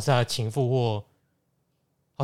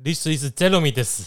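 Japanese-accented self-introduction; japanese accent in mandarin. Shown as a demonstration. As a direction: tack a Japanese desu on the end. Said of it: "这是一个日本腔".

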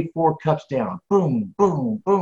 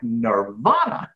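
blissful; 3 semitones lower, much slower than usual. Retold or imitated. Sees giant coffee machine.

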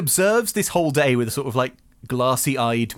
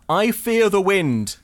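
slow, louder, higher solemn dread; solemn slow Ariel voice; 7 semitones higher, 4 dB louder, slower than usual. Retold or imitated. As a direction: intone it slowly, half-mocking. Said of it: "Ariel says, for the millionth time".

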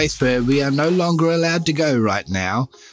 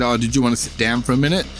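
lonely man's offer; faster than usual. Retold or imitated. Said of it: "and then he said".

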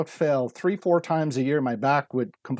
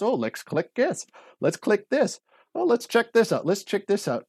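eager excited; 6 semitones higher than usual. Retold or imitated. Eagerly clicking through fitness ads.

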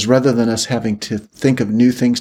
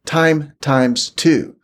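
slow emphasis; 3 semitones higher, much slower than usual. Acted. Drawn out for emphasis.

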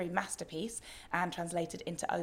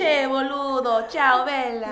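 louder Italian-lilted Argentine Spanish; Argentine Spanish accent; 6 semitones higher, 11 dB louder, slower than usual. Retold or imitated. Host mimicking Buenos Aires street talk, with a loud Argentine accent. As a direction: play a Buenos Aires local with a sing-song Argentine accent. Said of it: "Spanish with an Italian accent".

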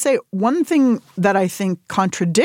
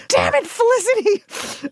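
high, slow, drawn-out grumble; conceding defeat with a grin; mock grudging curse. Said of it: "I was like".

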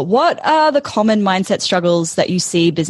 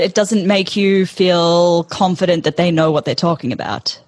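vocal fry. Real, not acted. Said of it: "I had a little bit of vocal fry just then".

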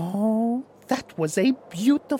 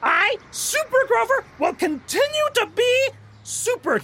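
heroic proclamation; 14 semitones higher than usual. Acted. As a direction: announce it proudly like a caped hero. Hero's defiant proclamation.

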